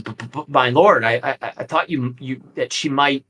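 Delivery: a frightened monk stammering before his lord; stammering abbot. Acted. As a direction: trip over the words in panic. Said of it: "taken aback and stammering".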